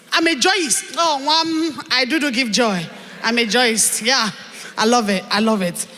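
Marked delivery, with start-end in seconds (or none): 1.9-4.0 Chioma voice. Acted. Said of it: "this is my Chioma voice".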